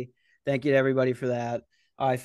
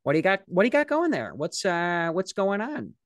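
put-on prying, higher nosy old guy voice; nosy coworker; 6 semitones higher than usual. Coworker caught him digging in his backpack, prying nosy voice. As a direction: needle him like a snoopy coworker. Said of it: "and he'll just be like".

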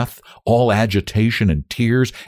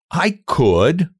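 higher-pitched, slightly hardened tone; harder; 9 semitones higher than usual. A narrator's reading. Young woman insisting to the man, harder. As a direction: harden it a little, voice lifted. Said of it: "she added harder".

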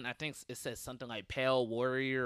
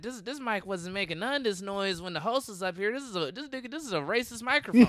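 mock stage indignation; 8 semitones higher than usual. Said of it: "I was like".

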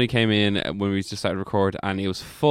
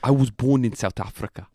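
put-on South African accent; South African impression. Host playing the comedian guest, South African accent impression. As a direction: impersonate Trevor Noah's South African accent. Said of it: "you shouldn't be doing impressions".

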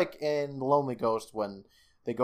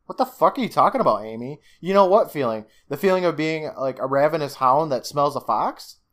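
ranting at the screen in disbelief; baffled outrage; 3 semitones higher than usual. Retold or imitated. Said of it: "And I'm like".

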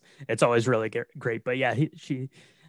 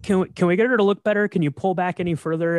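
imitated director; 7 semitones higher, 5 dB louder than usual. Acted director pleading with cameraman.

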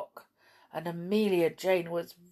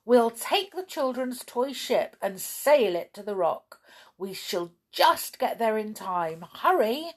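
urgent plan; 3 semitones higher than usual. Acted. Clown urges rescue plan.

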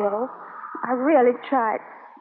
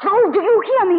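louder, higher, pushing harder; insistent plea; 5 semitones higher, 4 dB louder than usual. Acted. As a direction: demand that he listen now. Repeats the question more insistently.

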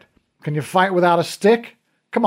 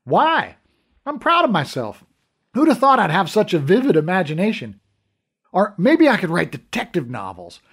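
loud and higher, cocky and gleeful; brash mockery; 5 semitones higher, 4 dB louder than usual. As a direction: show off loudly at the bedside. Brash cop mocking the dream.

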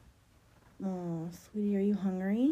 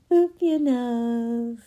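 louder, slower, delighted; excited boop; 3 semitones higher, 11 dB louder, much slower than usual. Acted. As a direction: boop it again with a squeal.

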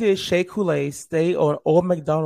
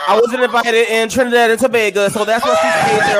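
imitating Omar's accent; 3 semitones higher than usual. Host doing Omar in a Snatch Game answer, lightly voiced. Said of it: "let me get the accent right".

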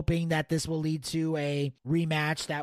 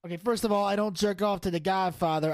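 the Don. Acted. The Don defends his movie tastes to co-host, mobster. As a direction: set him straight like a wiseguy.

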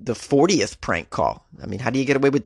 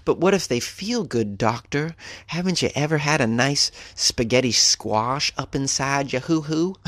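mock patient; 3 semitones higher than usual. Mock patient answering the doctor.

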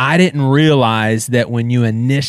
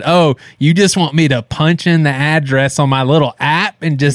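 condescending; 5 semitones higher than usual. Retold or imitated. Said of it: "he literally talked down to me like I was one of these dumb kids".

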